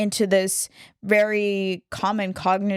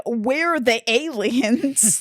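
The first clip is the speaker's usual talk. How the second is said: slow, stressed on We're; mock quote; 4 semitones higher, much slower than usual. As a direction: drag out We're the aliens mockingly. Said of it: "she says".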